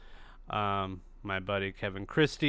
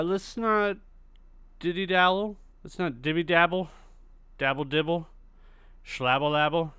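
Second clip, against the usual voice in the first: higher, bouncy sing-song nonsense words; playful silly rhyming; 5 semitones higher than usual. Acted. Host teasing podcast listeners before the interview, playful sing-song. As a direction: toss off the rhymes like a goofy game.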